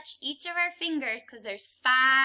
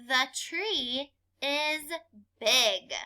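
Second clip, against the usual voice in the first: slow model sentence; slower than usual. Shown as a demonstration. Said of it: "read the sentence".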